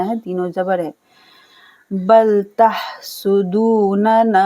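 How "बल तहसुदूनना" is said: slow recited word; Quran recitation. Shown as a demonstration. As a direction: chant the word slowly. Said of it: "तहसुदू को खींचना है".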